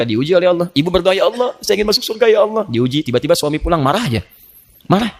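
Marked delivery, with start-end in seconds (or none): 1.1-2.7 a touch of a mother's prayer, higher; lightly voiced pleading mother. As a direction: plead gently like a hopeful mother. Voicing mother praying. (ibu berdoa, suara sedikit lebih tinggi, memohon)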